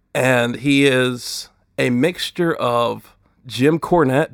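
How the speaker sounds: ordinary talk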